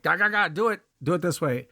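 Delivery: high, hurried blurt. Retold or imitated. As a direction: spill it out impatiently. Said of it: "wanting to blurt".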